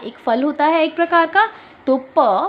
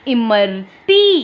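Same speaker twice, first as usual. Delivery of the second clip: slow teacher model; 4 dB louder, much slower than usual. Shown as a demonstration. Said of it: "ये क्या बना है बच्चों?".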